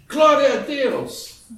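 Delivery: put-on high, slow shout in an American accent. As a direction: cry out praise with a thick American accent. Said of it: "uma voz com sotaque de americano gritando".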